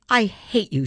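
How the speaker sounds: a loud, tearful shout. Acted. Rex shouts at the family through tears, loud. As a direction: hurl it at the whole family. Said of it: "she shouted".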